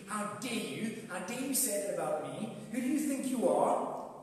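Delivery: mock-indignant outrage; self-righteous indignation. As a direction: play the offended, morally superior churchgoer. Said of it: "will get very self-righteous very quickly".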